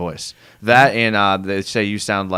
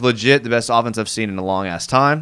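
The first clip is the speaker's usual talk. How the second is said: plain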